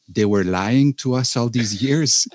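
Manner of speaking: cracking up mid-line, stretching it out; laughing in shock that they lied; laughing disbelief. Retold or imitated. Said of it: "And you said".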